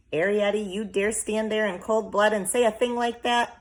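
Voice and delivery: how dare you, shocked and rising; outraged mother. A narrator's reading. Homily scolding Arrietty, loud and outraged.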